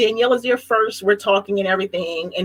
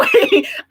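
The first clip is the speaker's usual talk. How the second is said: high laugh; 3 dB louder than usual. Real, not acted. Laughs after namedropping.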